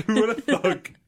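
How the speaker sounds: very slow, drawn-out echo; slow drawl. Pretend. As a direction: stretch every word lazily. Echoing joke slowly.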